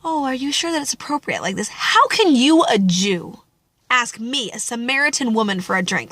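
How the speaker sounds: prim, polite question, not angry; mock polite propriety. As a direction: ask it like a careful, proper lady. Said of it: "she's not like".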